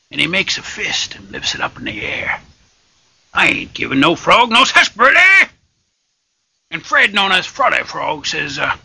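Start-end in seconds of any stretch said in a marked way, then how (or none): 3.3-5.5 a touch louder, higher barkeep refusal; lightly voiced tough barkeep; gruff barkeep. Barkeep refusing the frog, mild gruff.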